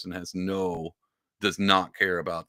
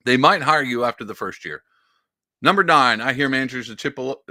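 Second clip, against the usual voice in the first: sarcastic reading; 3 semitones higher, 5 dB louder than usual. Shown as a demonstration. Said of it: "put emphasis".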